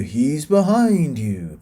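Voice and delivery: lightly hammed-up, drawn-out panto call; pantomime audience call. Reviewer showing Americans a British pantomime catchphrase, lightly hammed-up audience call. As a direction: draw it out like a panto crowd's warning. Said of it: "takes place in an English pantomime".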